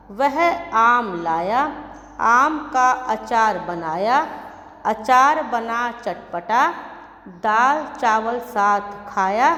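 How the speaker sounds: slow sing-song reading of a rhyme, each line rising at the end; children's rhyme recitation. Acted. Teacher reciting the lesson rhyme to young pupils, slow sing-song. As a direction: read it like a nursery rhyme for little pupils, slowly and evenly.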